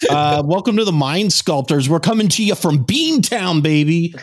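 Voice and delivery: hammed-up Boston podcast intro; mock Boston accent. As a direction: play up a thick Boston accent for the welcome. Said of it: "are we supposed to talk like this".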